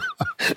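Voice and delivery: shrill burst of laughter; high squeal laugh. Real, not acted. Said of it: "laughing at himself".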